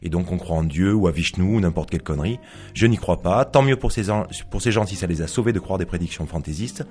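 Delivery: author reading a dramatic monologue aloud; story narration. Acted. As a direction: read it as one side of a conversation, in measured phrases with pauses. Reads own novel aloud. (lecture de roman à voix haute, en monologue posé)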